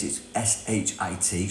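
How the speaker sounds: letters S H I T one by one; spelled out letter by letter. Shown as a demonstration. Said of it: "if you think of the word shit".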